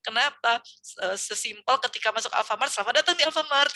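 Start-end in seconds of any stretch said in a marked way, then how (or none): 2.7-3.7 bright, higher, louder clerk welcome; shop clerk greeting. Retold or imitated. Teacher imitating an Alfamart cashier welcoming customers, higher and louder.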